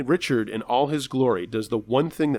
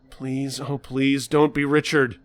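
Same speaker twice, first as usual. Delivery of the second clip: slow pleading dread; 2 semitones higher, slower than usual. Acted. Clerk dreading Richard's arrival.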